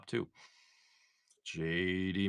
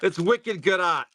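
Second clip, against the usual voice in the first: "It's wicked good art" in a hammed-up Boston accent, higher and louder, slow; 7 semitones higher, 6 dB louder, slower than usual. Shown as a demonstration. Streamer jokingly mimicking Boston talk, thick accent. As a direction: stretch out "wicked" like a Boston local. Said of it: "I kinda wanna talk like that".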